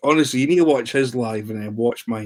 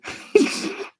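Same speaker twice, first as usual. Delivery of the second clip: laugh. Real, not acted. Amused by own retold prank.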